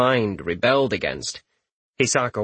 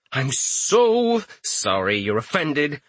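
slow, mocking apology; sarcastic; 4 semitones higher, slower than usual. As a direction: drip with fake regret. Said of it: "Richter said sarcastically".

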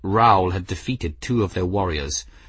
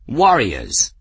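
loud yowling call to the room; rally the warriors with a loud cry; 3 semitones higher, 6 dB louder than usual. A narrator's reading. Nin yowls to the clan's warriors, loud and fierce. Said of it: "Nin yowled to the chamber".

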